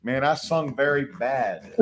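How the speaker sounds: hoarse, strained from singing. Real, not acted. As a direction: talk through a worn-out voice. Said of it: "You're losing your voice".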